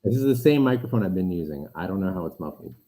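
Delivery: muffled mic sound; like a mic under a can. Real, not acted. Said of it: "Go on with your muffled".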